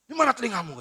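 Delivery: a touch of an irritated father's snap; mock angry father. Preacher voicing an impatient father at his child, mildly cross. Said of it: "marah kadang-kadang kan".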